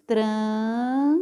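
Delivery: "Tran-" stretched long with a rising tune; drawn-out syllable. Shown as a demonstration. Teacher sounding out "Tran-" for the class, drawn out. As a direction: hold the nasal "Tran-" out slowly. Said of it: "O, o tran".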